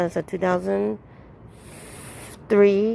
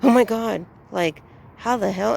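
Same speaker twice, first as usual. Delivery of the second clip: retold amazement; 3 semitones higher, 4 dB louder than usual. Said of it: "seeing my bank account and going".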